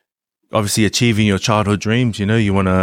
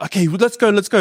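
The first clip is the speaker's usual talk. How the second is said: imitating Chelsea; 8 semitones higher, faster than usual. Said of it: "Chelsea's like".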